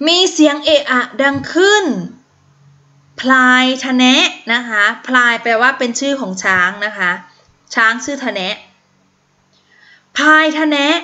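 lively storybook reading to the class; a teacher reading a picture book; reading to children. Acted. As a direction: read it out brightly for young pupils. Teacher reads story aloud.

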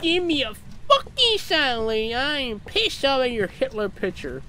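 high, strained rant at a ghost; mock angry outburst. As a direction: wail the demand in exaggerated exasperation. Loses patience with the silent ghost.

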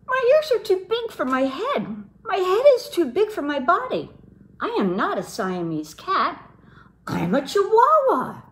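put-on high, bright playful Spanish accent; a kitten putting on his best Spanish accent. A narrator's reading. Kitten posing at his mirror, in a high Spanish accent. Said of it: "using his very best Spanish accent".

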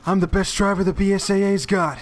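a hint of a boastful game character; lightly hammed-up game quote. Player quoting a game line to co-op partner, lightly hammed-up boast.

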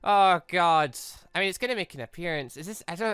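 ordinary delivery

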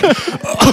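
high-pitched imitated choke; short, high gasp for air; mock choking gasp. Guest retelling swallowing candy whole, imitated choking gasp. Then I can't breathe.

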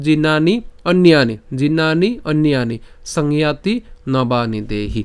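জীর্ণানি and অন্যানি as two slow words; pronunciation drill. Shown as a demonstration. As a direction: model জীর্ণানি, অন্যানি, then finish the line calmly. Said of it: "কীভাবে করতে বলেছি". (জীর্ণানি অন্যানি ধীরে স্পষ্ট উচ্চারণে)

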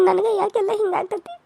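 soft tearful sobbing; crying. Acted. The daughter-in-law asks herself why, softly crying. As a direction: weep the question out quietly.

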